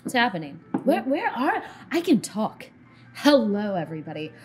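lightly voiced, jumpy, loud on the hello; Gylon. Game master as Gylon finding he can talk, amazed. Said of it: "He's like".

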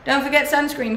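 ordinary delivery

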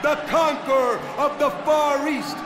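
drawn-out ring introduction; lucha libre announcer. Acted. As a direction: hype the entrance, stretching the name.

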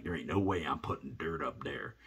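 breathy whisper, kept under his breath; whisper to himself. Retold or imitated. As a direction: whisper it so nobody nearby hears. Muttering to himself in field.

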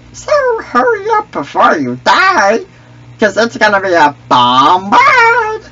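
cheeky character taunting the other players; Misa voice. Acted. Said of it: "I love doing that fucking voice".

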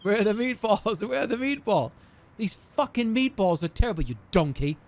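lightly voiced irate TV chef; a hint of a chef berating a cook; Gordon Ramsay. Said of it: "Gordon Ramsay?".

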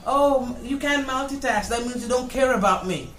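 outraged yelling through laughter; arguing with myself. Acted. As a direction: chew out your other self. Scolding the other self, laughing.

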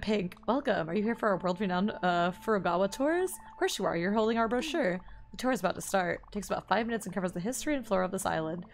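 brisk tour guide reading, lightly voiced; game dialogue read aloud. Streamer reading a tour guide's dialogue aloud, brisk. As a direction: read the guide's lines quickly, a hint of a chirpy host.

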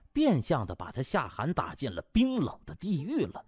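ordinary delivery

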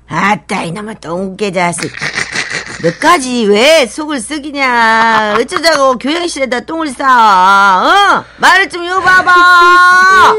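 put-on grumbling old principal scolding a dog. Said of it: "이러시더군요".

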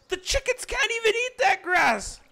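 high, loud outraged cry; outraged shout. Acted. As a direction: yell it in mock outrage. Outraged defence against chicken abuser.

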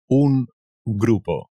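más lento y marcado; despacio. Shown as a demonstration. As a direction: estirar cada sílaba. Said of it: "A group". (despacio y claro)

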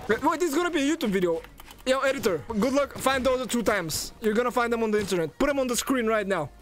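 high-pitched, insistent instructions; worked-up calling out. Real, not acted. Streamer orders editor to find the clips, worked up. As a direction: demand it, still worked up.

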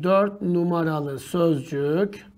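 quietly dictating the option; slow quiet dictation. Shown as a demonstration. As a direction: read it slowly while writing. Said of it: "bak yazıyorum".

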